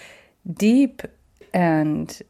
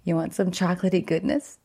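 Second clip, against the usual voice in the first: goofball voice; 3 dB quieter, faster than usual. Retold or imitated. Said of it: "I'm feeling all goofball-y".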